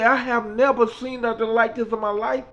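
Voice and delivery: Mickey's voice. Retold or imitated. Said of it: "She said".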